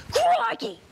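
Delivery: sudden high excited crikey; startled wildlife host; surprised exclamation. Acted. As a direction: yelp at the sight of the beast. Host spots the beaver.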